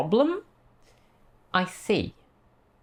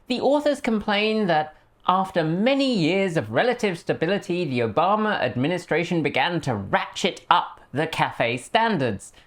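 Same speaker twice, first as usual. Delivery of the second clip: a light posh English accent, mock-formal; 3 semitones higher than usual. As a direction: read it like a posh English commentator. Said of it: "I do this in a posh English accent".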